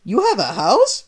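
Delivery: high, loud baffled Italian; Mario baffled by accusation, loud confused. Acted. Mario asks Sonic.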